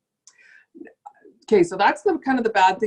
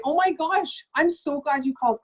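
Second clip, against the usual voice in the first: delighted customer; 6 semitones higher than usual. Retold or imitated. Thrilled customer on phone.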